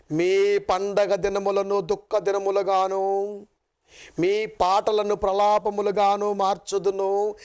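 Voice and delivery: slow, measured reading of the verse; solemn scripture reading. Acted. Preacher reading Amos to the congregation, slow and solemn. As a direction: read the prophecy slowly, weighing each word.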